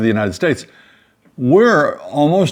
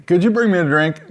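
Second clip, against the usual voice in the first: retold request; 6 semitones higher than usual. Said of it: "But when I say".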